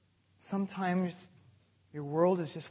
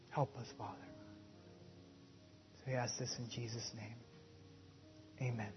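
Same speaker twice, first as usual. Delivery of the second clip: prayer; 3 semitones lower than usual. Acted. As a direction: pray humbly on behalf of the congregation. Leads closing prayer.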